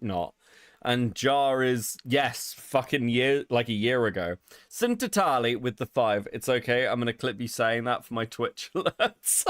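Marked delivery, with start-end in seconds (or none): 4.7-5.6 mock Italian accent on the name; bad Italian accent. Shown as a demonstration. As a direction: put on a fake Italian accent. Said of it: "put on a shit Italian accent".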